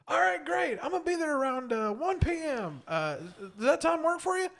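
over-the-top loud phone persona, pitched far up; loud obnoxious voice. Retold or imitated. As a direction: boom a fake-friendly hello down the phone, way up high. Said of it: "in my most, like, loud, obnoxious voice".

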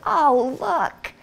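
newlywed delight. Retold or imitated. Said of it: "looking at that and going".

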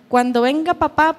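hint of a tiny child talking like an old lady; little-old-lady child. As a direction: lightly mimic a small daughter's grown-up chatter. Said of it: "habla como una viejilla".

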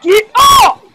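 very high yelled order; commanding yell. Pretend. Teacher toy to bad student, high yelled order. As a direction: yell it sharply upward in pitch.

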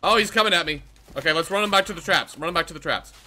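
loud, high urgent calling; being chased. Real, not acted. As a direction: yell while running from a monster. Monster charging, fleeing to traps.

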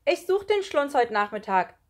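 loud, high announcement; volunteer at full voice; eager, high schoolboy call. A narrator's reading. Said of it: "rief Marvin".

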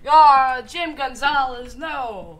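loud, high panicked yelling; panicked cry. Real, not acted. Character killed in game.

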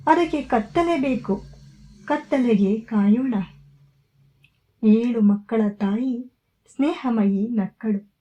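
measured, unhurried poetry reading with pauses between lines; poem recitation. Acted. Host reads a Kannada poem to her viewers, measured recital.

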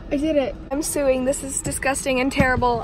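loud, fed-up complaining; loud disgusted rant at the bands; disgusted outburst. Real, not acted. Rubber bands back on, disgusted.

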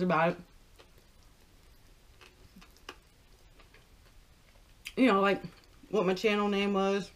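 talking between bites of chicken; speaking with food in mouth; chewing while talking. Real, not acted. Seen 0: Holds wings throughout, bites at 3.8–4.7 and 7.0, chewing between.

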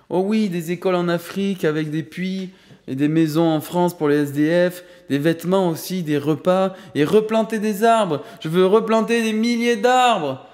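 bouncing with excitement, building to a cry; an excited boy building to an eager shout; excited exclaiming. A narrator's reading. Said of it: "S'exclama Quentin, tout excité".

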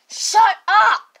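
sharp loud shut up; yelling shut up at a classmate. Acted. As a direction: snap it out loud. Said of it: "Why are you guys yelling in here?".

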